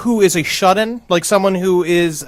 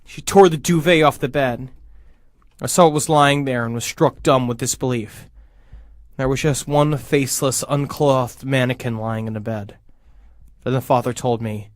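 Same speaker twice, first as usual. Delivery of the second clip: low, hushed scary-story reading; story narration; 6 semitones lower, 6 dB quieter than usual. A narrator's reading. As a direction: read a creepy tale aloud, measured.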